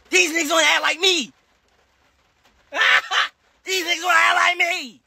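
laughing mock repeat. Real, not acted. Laughing at chat on live, mocking tone. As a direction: laugh it off as a taunt.

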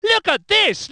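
high, brisk call to look; quick commentator exclamation; excited exclamation. Acted. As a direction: point out sudden action to viewers.

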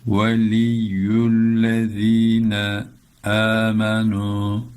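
"Veliyyüllezine amenu" with a lisped z and a clear open a, slow; tajweed reading. Shown as a demonstration. Teacher recites "Veliyyüllezine amenu" for the class, slow. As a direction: chant "Veliyyüllezine amenu" slowly and cleanly. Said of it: "Böyle okuyalım".

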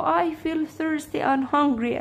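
very slow, clear English for learners; teacher voicing the girl's line, very slowly; slow read-aloud. Shown as a demonstration. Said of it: "قالت له".

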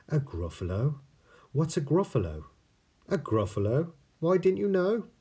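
high surprised voices. Acted. Mouse and snake exchange.

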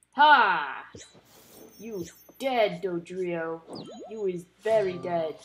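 loud taunting triumph; gloating. Real, not acted. Taunting the knocked out Dodrio, gloating. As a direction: gloat over the defeated foe.

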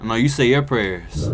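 slow, low mock villain taunt; slow theatrical villain menace. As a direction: throw it back like a movie villain. Throwing the villain's line back.

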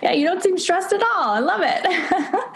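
amused chuckle while answering; laughing. Real, not acted. Host laughs at guest's joke.

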